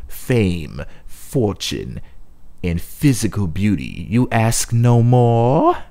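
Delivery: a lightly voiced witch weighing the request; second witch. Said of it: "The second witch now spoke".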